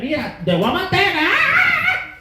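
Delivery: high, fast threat ending in a yelp; retold Spanish threat.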